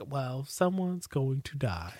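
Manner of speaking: slow, low, ominous realization; deadpan foreboding, drawn out; deadly serious. Retold or imitated. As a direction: say it slowly, as a grim certainty. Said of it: "Carolyn's on serious business mode".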